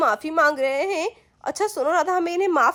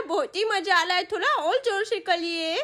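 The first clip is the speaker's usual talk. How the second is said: giggling with delight. Acted. Kid on uncle's back during pushups, giggling.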